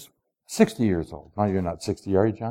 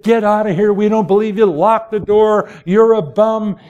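higher, scoffing brush-off; mock dismissive; 7 semitones higher, 4 dB louder than usual. Apostles turning Paul away, mock scornful. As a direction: shoo him away in disbelief.

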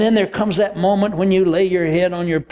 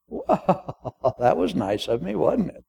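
chuckling king; 5 dB quieter, slower than usual. Acted.

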